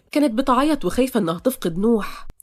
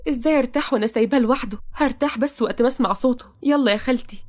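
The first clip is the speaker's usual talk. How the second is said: put-on higher-pitched, troubled young woman; reluctant young woman; 3 semitones higher than usual. Toqa unwilling to leave Nouh alone, reluctant.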